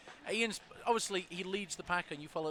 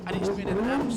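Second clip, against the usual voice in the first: loud; 10 dB louder than usual. Acted. Bickering rivals.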